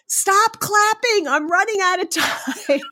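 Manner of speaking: playfully frantic plea to the crowd; laughing mock panic. Guest reenacting begging applauding audience to stop, mock panic. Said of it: "And I panicked".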